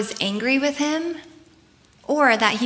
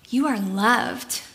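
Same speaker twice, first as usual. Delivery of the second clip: tender emphasis; slower than usual. Shown as a demonstration. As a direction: let "You are loved" land gently and slowly, like a reassurance. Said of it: "Like, he's saying".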